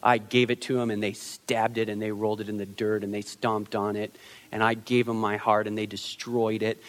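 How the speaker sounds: put-on low, soft, hurt voice, nursing an old wound; heartbroken confession. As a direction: sound like the heart is still broken. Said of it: "There's some of you that are like".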